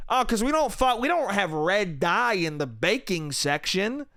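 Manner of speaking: mocking imitation. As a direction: parrot the clerk, stretching it out. Mocking the store clerk's reply.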